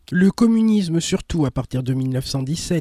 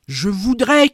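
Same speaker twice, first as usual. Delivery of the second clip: cry out; 4 semitones higher, 4 dB louder than usual. Acted. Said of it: "cria-t-il".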